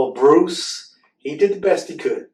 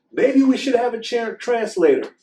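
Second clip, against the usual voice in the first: much higher squeaky chipmunk; 11 semitones higher, 7 dB louder than usual. Acted. Chipmunk suggesting a translator, high squeak. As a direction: pitch it way up like a tiny chipmunk.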